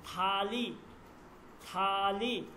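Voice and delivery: "থালি" drawn out, begun with aspirated t; aspirated th demo. Shown as a demonstration. Teacher showing how te plus he sounds, "থালি" with aspirated th. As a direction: say "থালি" slowly with a puff after the t. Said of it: "দেখেন উচ্চারণ আমরা কি".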